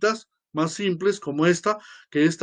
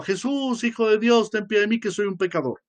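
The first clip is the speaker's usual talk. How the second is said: first cry, less intense; 4 semitones higher than usual. Retold or imitated. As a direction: call out to Jesus, holding back a little.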